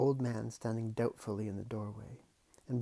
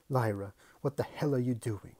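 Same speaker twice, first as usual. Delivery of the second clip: angry uncle; 6 dB louder than usual. Acted.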